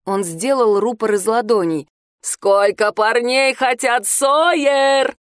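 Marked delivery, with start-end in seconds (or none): 2.2-5.2 calling out. Acted. Calling out through cupped hands.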